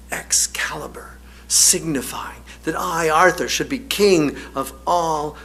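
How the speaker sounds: slow, hushed reverence for the legend; King Arthur telling of Excalibur with mild awe; filled with awe. Retold or imitated. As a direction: recite it like a sacred vision. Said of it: "his voice filled with awe".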